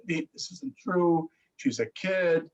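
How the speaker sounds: slow, lightly voiced dismissive relative; a hint of relatives brushing him off, drawn out. Mother-in-law dismissing the father's worry, lightly voiced and slow.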